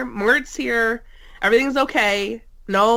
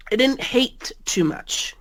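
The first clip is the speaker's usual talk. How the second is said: whisper; 3 semitones higher, slower than usual. Real, not acted. Whispered aside.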